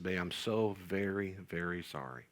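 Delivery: soft, slow, sinking apology; tender apology. Retold or imitated. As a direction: retell a gentle sorry to your child, dropping low and quiet. Retelling tender apology to tearful son.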